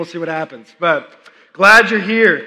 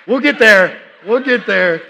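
louder, chuckling sigh of patience; dad laughing that his son will learn one day; laughing resignation; 3 semitones higher, 8 dB louder than usual. Retold or imitated. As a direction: laugh it off, there's time.

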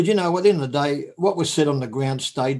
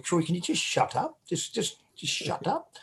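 quiet retold scolding; 2 semitones higher, 9 dB quieter than usual. Telling teammate to shut up.

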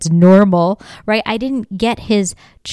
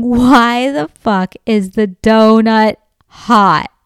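slow, louder retold outburst; retold yelling; 2 semitones higher, 5 dB louder, slower than usual. Wife complaining about a hot donut, retold yell. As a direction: stretch it out in exasperated protest, louder. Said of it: "I just start yelling".

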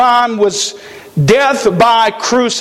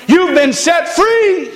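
high, drawn-out announcement; guard's proclamation; 7 semitones higher, slower than usual. Acted. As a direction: proclaim the release, rising high and stretching it. Preacher voices guard announcing release.

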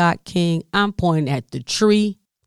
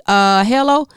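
incredulous hello; 3 semitones higher, 5 dB louder than usual. Retold or imitated. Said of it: "staring at her like".

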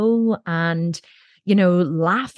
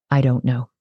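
a hint of a calm old sage, lower pitch; lightly voiced wise monk, pitched lower; Dalai Lama; 6 semitones lower than usual. Dalai Lama answering the audience.

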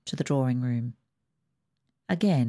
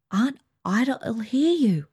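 cautioning; 7 semitones higher, slower than usual. Acted. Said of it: "cautioned Ruth".

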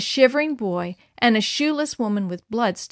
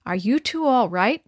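ordinary delivery, nothing marked

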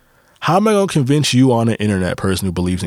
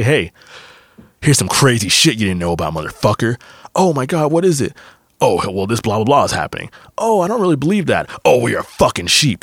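mock back-and-forth, lines pitched up; mocking argument. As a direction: ham up both sides of a snotty argument. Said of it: "I wouldn't say".

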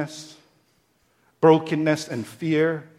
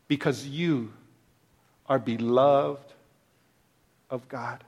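tender hush; 4 semitones lower, 5 dB quieter than usual. Acted. Soft close after building.

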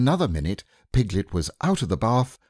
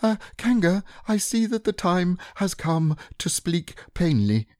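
very high, squeaky piglet forcing courage; a small pig mustering bravery; trying to sound brave; 11 semitones higher than usual. Acted. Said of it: "in as brave a voice as he could".

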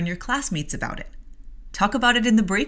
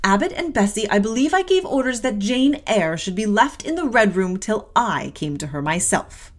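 stern mistress reproof; 2 semitones higher, 5 dB louder than usual. Acted. Mistress rebukes her servants.

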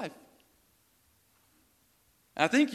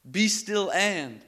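very slow emphasis; 4 semitones higher, 6 dB louder, much slower than usual. Acted. Repeating the verse once more.

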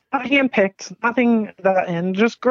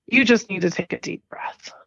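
calming whisper. Retold or imitated. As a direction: whisper it like a friend calming a panicked person. Friend Barbara calming her down.

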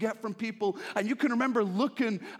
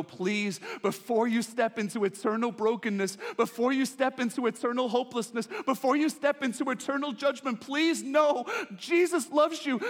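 building plea; 3 semitones higher than usual. Acted. Pleading message building up.

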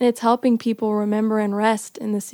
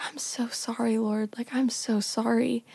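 softer, hushed plea to God; whispered apology prayer; 6 dB quieter than usual. Retold or imitated. Crying in the car apologizing to the Lord, hushed. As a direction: breathe out a tearful sorry.

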